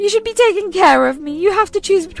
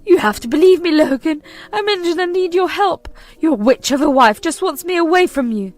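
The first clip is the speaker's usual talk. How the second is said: high, loud begging; desperate pleading mother; 6 semitones higher, 7 dB louder than usual. Acted. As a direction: beg him to believe her.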